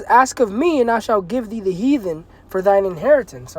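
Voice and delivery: measured preacher reading; scripture reading. Acted. Preacher reading the promise of inheritance, measured. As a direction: read the promise steadily.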